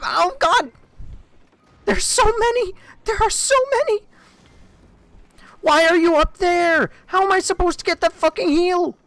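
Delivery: very high, loud shrieks; panicked screaming. Real, not acted. Streamer swarmed by enemies in game, shrieking in panic.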